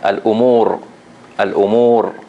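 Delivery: al-umur with a long u and heavy final r; strong ra. Shown as a demonstration. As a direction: model al-umur carefully, ending on a full ra. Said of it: "So we, I say".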